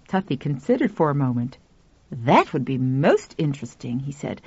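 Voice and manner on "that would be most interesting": put-on older man voice. Tuffy speaks lower.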